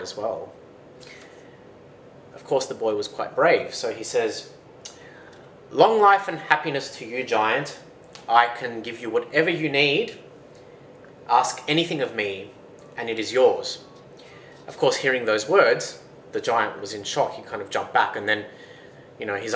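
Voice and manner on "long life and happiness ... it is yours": mildly raised, proclaiming address; bold greeting. Acted. Young boy bravely addresses the blind giant, bold greeting. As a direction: hail the giant with brave courtesy.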